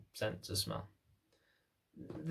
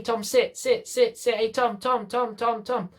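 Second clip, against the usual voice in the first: higher, loud repeated commands; nagging commands; 10 semitones higher, 3 dB louder, slower than usual. Acted. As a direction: keep barking the order at him. Owner nagging distracted dog.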